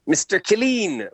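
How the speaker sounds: high, drawn-out mock teacher's call; annoyed teacher. Retelling a teacher calling him out, high annoyed imitation. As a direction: imitate an annoyed schoolteacher calling a pupil, slowly. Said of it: "she'd get annoyed".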